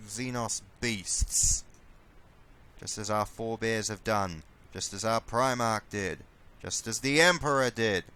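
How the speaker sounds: rousing commander's battle speech; rally speech. Pretend.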